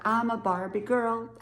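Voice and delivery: put-on half-remembered Valley girl accent; attempted Valley girl. Shown as a demonstration. Can't remember how to do it, attempted Valley girl. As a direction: lightly try on a Valley girl voice. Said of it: "talking like a Valley girl".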